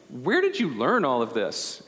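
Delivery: retold amazed question, pitch swooping on "Where". Youth minister impressed by student's grasp of discipleship, amazed. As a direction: marvel in mild mock astonishment. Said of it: "I was amazed".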